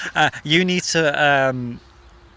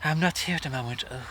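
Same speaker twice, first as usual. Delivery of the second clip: Joanna Lumley impression; 7 dB quieter, faster than usual. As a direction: purr the message like a posh actress. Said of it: "she used to put on, like, a Joanna Lumley".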